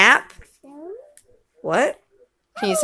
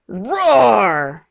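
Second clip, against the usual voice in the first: lion roar. Pretend. What's the lion say?.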